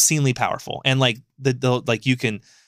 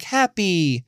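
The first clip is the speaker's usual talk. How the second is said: put-on a light childlike echo of one word; simpleton echo; 5 semitones higher than usual. Nezuko echoing her brother's word in a lightly voiced, simple way. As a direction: mimic a simple girl parroting the word. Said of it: "Like, that's how she talks".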